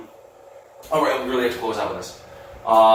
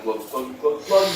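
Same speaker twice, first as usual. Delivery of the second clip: glugging; 3 semitones lower, 3 dB quieter, slower than usual. Shown as a demonstration. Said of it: "drink a glass of mouthwash".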